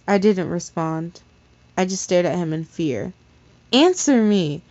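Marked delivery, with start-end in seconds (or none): 3.7-4.6 a touch of a growl, louder demand; menacing louder command; mild growled order. Acted. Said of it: "he growled".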